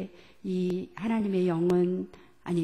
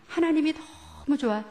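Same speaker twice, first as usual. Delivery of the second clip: 너무 stretched out, phrase pitched higher; stress on 너무; 4 semitones higher than usual. Shown as a demonstration. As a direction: draw out 너무 with delight. Voices God's great delight.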